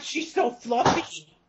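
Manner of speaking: high, raspy, throat-straining alien creature voice. Goofing around doing character voices, Stitch voice. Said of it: "that hurt my throat ... Fucking Stitch".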